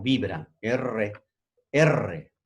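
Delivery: slow, rolled "R" with a long vibrating trill; trilled R demo. Shown as a demonstration. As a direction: stretch out the "R" and let the tongue vibrate. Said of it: "¿Por qué dice vibrante?". (erre vibrante bien marcada y lenta)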